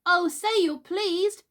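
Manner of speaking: high, slow, pleading cry; cried out. Acted. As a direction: beg her eagerly. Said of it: "cried Nibs".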